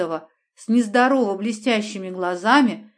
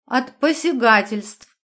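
slow, slurred tipsy word; drunk with hiccups; slower than usual. Acted. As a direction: struggle drunkenly to get it out. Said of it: "с трудом выговорила Аня".

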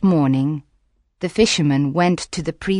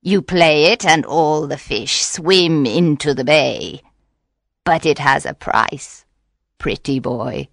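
tempting witch; 3 semitones lower than usual. Acted. Witch offering the fisherman magic for a price, tempting. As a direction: tempt him, slowing on the price.

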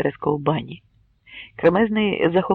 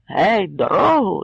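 calling out; 3 semitones higher, 3 dB louder, slower than usual. Acted. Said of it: "кричав Кремезний".

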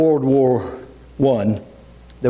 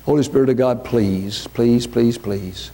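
closing prayer. Acted.

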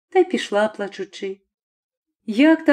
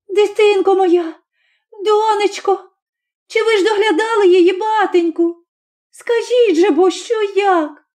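anxious mother; 8 semitones higher than usual. A narrator's reading. Mother frantic about sick child.

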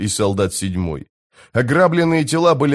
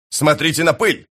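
raised, higher-pitched call; excited shout; 5 semitones higher than usual. A narrator's reading. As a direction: call out to point something out. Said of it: "закричал Пормкваль". (возбуждённый возглас)

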